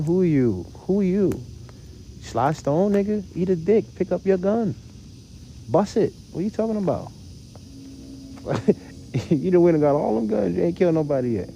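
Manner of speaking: high-pitched mock gangster voice; mock street tough. Voicing street rap fans mocking.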